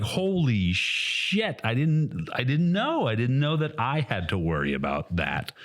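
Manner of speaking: lightly voiced naive newbie, drawn out slowly; mock clueless player. Imitating the first-timer who took off his goggles, slow mock-innocent. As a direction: play the oblivious new guy, a touch slow and dopey. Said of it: "I was just like".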